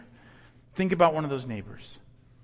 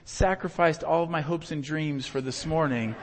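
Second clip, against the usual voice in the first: lightly hammed-up sarcastic self-sacrifice; mock selfless; 4 dB louder than usual. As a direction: play the martyr, overly gracious. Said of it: "somebody says".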